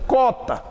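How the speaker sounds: cota as "kó-ta", plain k; no w glide in cota; cota without u. Shown as a demonstration. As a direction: say cota with a bare k onset. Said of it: "assim é cota".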